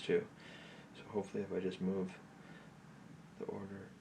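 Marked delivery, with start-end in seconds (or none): 3.4-3.9 whispering. Real, not acted. Player thinking aloud over a puzzle, whispering. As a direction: whisper it while working it out. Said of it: "That's why I'm whispering so much".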